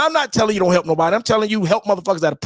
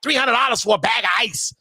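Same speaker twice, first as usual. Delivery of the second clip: 1 repeated shout. Real, not acted. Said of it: "Shit like that".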